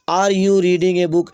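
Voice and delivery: each word stretched out slowly; slow dictation. Shown as a demonstration. Teacher reading the example sentence to the class, slow and deliberate. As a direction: read it slowly so students can copy.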